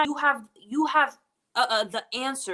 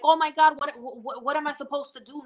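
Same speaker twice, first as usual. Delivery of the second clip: higher, mildly acted tearful fretting; mock weeping panic; 4 semitones higher than usual. Speaker imitates people focused on crying, mildly acted weepy panic. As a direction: imitate someone overwhelmed, bursting out on the first words. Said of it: "many of us focus on the crying and the weeping".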